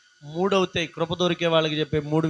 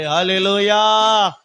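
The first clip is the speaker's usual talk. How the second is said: acclamation; 2 semitones higher, 6 dB louder, much slower than usual. Real, not acted. Preacher's acclamation after song.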